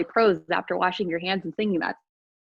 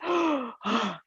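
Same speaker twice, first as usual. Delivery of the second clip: breathless gasp. Acted. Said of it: "all out of breath".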